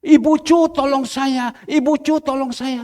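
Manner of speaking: imitated repeated appeal for help; mock cry for help. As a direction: call out names as if begging for rescue. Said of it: "Dia tidak teriak".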